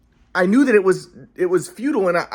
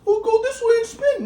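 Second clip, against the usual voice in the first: high, slow mock dad voice; lightly mocking dad's coaching; imitating dad. Son mimics his dad's shooting advice, high and slow.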